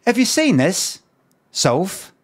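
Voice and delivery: mock TV host pitching up in disbelief; imitating an incredulous presenter. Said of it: "And he went".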